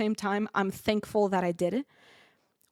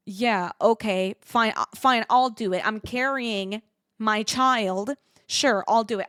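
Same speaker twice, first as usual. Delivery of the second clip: grudging compliance; 5 dB louder than usual. Retold or imitated. Replying to the officer while carrying the cat, grudging compliance. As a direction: give in with pointed exasperation.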